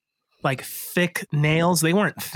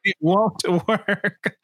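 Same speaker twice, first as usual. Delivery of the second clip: slow, laughing and higher; laughing slow warning; 4 semitones higher, much slower than usual. Pretend. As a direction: echo the warning through a laugh.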